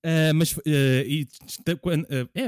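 choked up, struggling to get words out; choking. Real, not acted. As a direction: talk as if something went down the wrong way. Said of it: "é que estou engasgado". (engasgado, a tentar falar)

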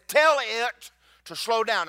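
slow, deliberate, each word weighted; God's quiet command. Retold or imitated. Preacher voices God telling him to slow the storm, slow and weighty. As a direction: lay it down slow like a voice from above. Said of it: "and he said".

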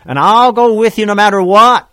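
loud, high, fervent promise; eager vow. Retold or imitated. First follower vowing loyalty to Jesus, loud and fervent. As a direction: swear it with everything. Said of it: "first that said".

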